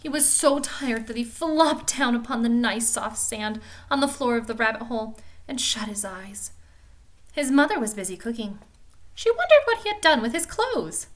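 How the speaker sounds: a gentle read-aloud storytelling voice; storybook narration. A narrator's reading. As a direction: read it like a bedtime story for children. Reads Peter Rabbit aloud.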